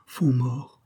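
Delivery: mild terror, barely voiced; terrified repeat. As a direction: murmur the name in fear. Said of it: "en répétant avec terreur".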